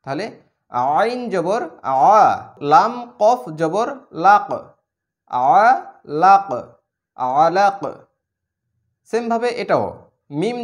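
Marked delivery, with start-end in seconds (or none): 1.0-7.8 আলাক with the final ক bounced out; আলাক ending on a sharp, echoing ক; qalqala bounce. Shown as a demonstration. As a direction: release the sakin ক in লাক with a push. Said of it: "ধাক্কা দিয়ে পড়তে হবে".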